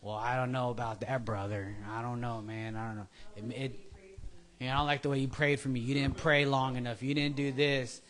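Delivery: low, soft grumbling believer; mock doubtful believer. Mimicking doubtful believers complaining about prayer, low and soft. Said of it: "believers just like".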